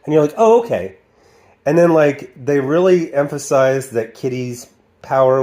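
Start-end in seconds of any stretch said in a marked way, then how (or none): 0.4-0.9 high-pitched, mock obliging reply; mock acceptance. Viewer answers Xavier's odd explanation, mock acceptance. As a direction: go up high on "Oh", then drop.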